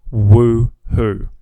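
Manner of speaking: loud, drawn-out cheer; celebratory whoop. Retold or imitated. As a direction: whoop it out in triumph. Cheering a different person answering.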